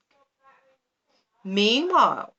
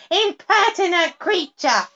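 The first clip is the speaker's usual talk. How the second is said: higher, louder contemptuous cry; 11 semitones higher, 6 dB louder than usual. A narrator's reading. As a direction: scorn the toad at full voice. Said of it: "she cried".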